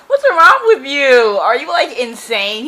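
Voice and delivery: exasperated reader yelling at a book character; exasperated outburst. Real, not acted. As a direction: throw the question at the page in disbelief.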